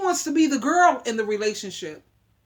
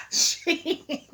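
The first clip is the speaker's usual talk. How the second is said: word breaking into real laughter; laughing; 4 semitones higher, 3 dB quieter than usual. Real, not acted. Woman telling of her offended mother, breaking up laughing.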